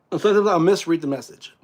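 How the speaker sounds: speaking through a burp. Real, not acted. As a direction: talk right after a small burp. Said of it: "Excuse me, I'm burping".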